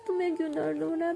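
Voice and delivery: whispered, concerned question; worried whisper. Acted. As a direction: hush it out as if holding back tears.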